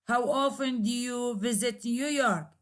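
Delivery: "New York" falling to end the question; falling intonation. Shown as a demonstration. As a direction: close on a drop at "York". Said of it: "there is a falling intonation".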